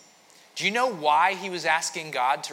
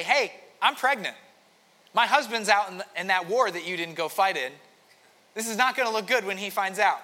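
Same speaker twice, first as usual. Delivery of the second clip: anxious woman; 5 semitones higher, 5 dB louder than usual. Retold or imitated. Retelling Bathsheba's worried message.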